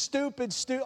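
scolding himself step by step; a chant of mild self-reproach; grumbling at his own foolishness; muttered self-scolding. Retold or imitated. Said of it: "each step is just".

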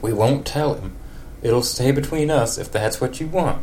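a hint of a country neighbour. In a country accent, Ned tells Marge it was wonderful. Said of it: "a super country voice for Ned".

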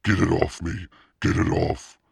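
loud, panicked scream. A narrator's reading. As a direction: shriek to get the spider off. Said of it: "She screamed again".

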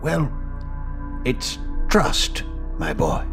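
a lightly voiced kindly old teacher; wise old master. Wise master giving final lesson.

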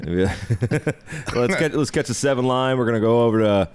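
hammed-up New York accent, joking; a lightly put-on New York accent; mock New York accent riffing on a Brooklyn track; bad New York accent. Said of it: "We're just doing terrible New York accents now".

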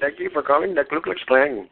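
mock Indian call-center agent, badly faked; horrible accent. Outsourced call-center agent answering for the Klan, in a mock Indian accent. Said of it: "Wow, that was a horrible accent".

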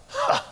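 short high-pitched "huh"; acted huh. Preacher recalling how they acted after a healing, high acted huh. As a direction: put on a little high "huh". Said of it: "We acted like".

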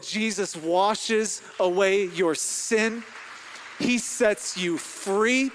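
loud, slow retold proclamation; emphatic proclamation. Pastor retelling what he told the crying woman, emphatic proclamation. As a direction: lean on each stressed word, drawn out.

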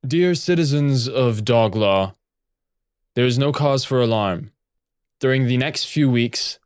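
booming official announcement; magically amplified voice. Acted. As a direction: intone it like a giant on-screen captain. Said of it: "his booming voice intones".

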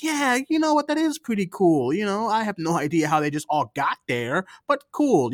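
high, fake cheerful yeah; mock enthusiasm. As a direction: pretend to be impressed. Faking enthusiasm to friend.

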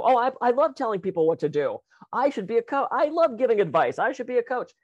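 mocking friends. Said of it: "I've had friends that go".

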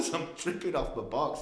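said through a laugh; giggling at the memory. Real, not acted. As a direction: laugh as you say it. Laughing while recalling the trip.

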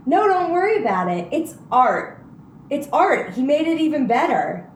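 lightly voiced rapper impression, breezy and high; impression of a rapper. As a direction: brush it off like a famous rapper. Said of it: "in Kanye fashion, is like".

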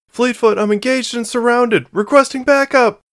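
high, loud call for backup; urgent radio call. A narrator's reading. Marie calls Fleetfoot for backup while surrounded, urgent shout. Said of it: "Marie called over the comm channel".

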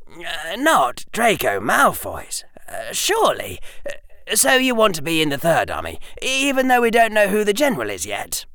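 put-on high-pitched boyish disbelief; surprised, a little worried. Harry questioning Hermione's choice of army, surprised and worried. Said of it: "Harry sounded surprised, and a little worried".

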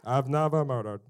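loud, put-on pompous holy voice; holy Pharisee. Pharisees boasting they never murdered, pompously holy. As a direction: proclaim innocence in a hammed-up pious voice. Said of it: "That's how they talk".

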